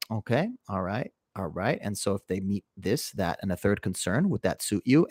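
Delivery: unruffled, gently questioning tone; calm disposition. Retold or imitated. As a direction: re-enact patiently calming an angry client. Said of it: "I'm in a totally calm disposition".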